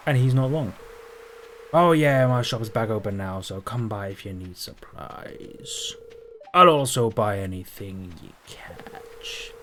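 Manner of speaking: put-on a light salty old sea-dog voice; hint of a gruff pirate, lightly voiced; pirate fisherman voice. Gamer voicing the fisherman's dialogue, a lightly voiced pirate. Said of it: "I'm gonna do it from this point forward".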